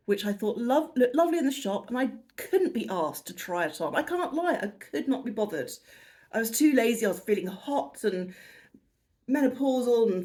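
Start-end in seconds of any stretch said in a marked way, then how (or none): 3.9-5.7 laughing admission. Real, not acted.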